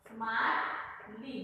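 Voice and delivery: slow, drawn-out स्मार्टली, each syllable spelled out; slow dictation. Shown as a demonstration. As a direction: dictate स्मार्टली slowly as you write it. Writes the word on the board.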